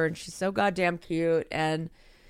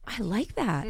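a gasp, then slow, softer and admiring; impressed stranger; 2 semitones higher, 5 dB quieter, slower than usual. Acted. Host acts out a stranger's reaction to her cohost's greeting, gasping and admiring. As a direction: act stopped in your tracks by the greeting. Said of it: "Try it on me".

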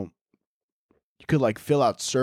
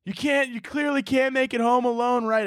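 imitated worried mom; 9 semitones higher than usual. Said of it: "She's like".

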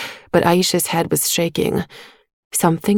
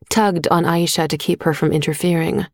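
ordinary delivery, nothing marked

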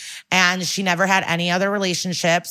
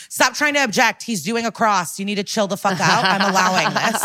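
raised pitch, lightly acted scolding; exasperated judge; 2 semitones higher than usual. Judge tells Calhoun to quit objecting, mock exasperation. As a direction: imitate a judge losing patience, easing down.

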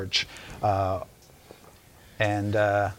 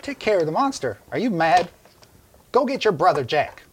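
put-on higher, louder incredulous old voice; old woman's scorn; 7 semitones higher, 4 dB louder than usual. Maud scoffing at the rescuer's plan to fight the monster.

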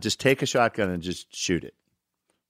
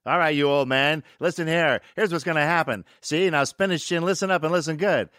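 higher-pitched tough-talk line reading; director feeding lines; 5 semitones higher than usual. Retold or imitated. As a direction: lightly play a director dictating a threatening speech. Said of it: "now you're gonna say this".

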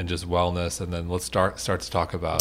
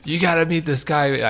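imitating Frank; 9 semitones higher than usual. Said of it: "I can't do Frank's accent".

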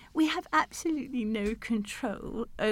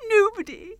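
exultant king; 9 semitones higher, 5 dB louder than usual. Acted. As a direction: call it out mid-slide. Gleeful king sliding down banisters.

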